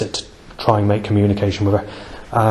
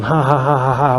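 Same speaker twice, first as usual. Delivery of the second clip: mock bird cackle in spoken ha-has; lightly imitated gull cry; imitated seagull laugh; 3 semitones higher than usual. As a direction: mimic a crow's jeering call. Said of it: "a crow or seagull's gone".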